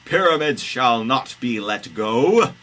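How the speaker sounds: high, loud decree; hammed-up royal refusal; Pharaoh's refusal. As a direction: proclaim it like a comic tyrant.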